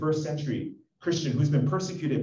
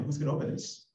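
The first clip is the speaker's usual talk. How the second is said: whispered plea; 5 dB quieter, faster than usual. Retold or imitated. Pleading question in the quote.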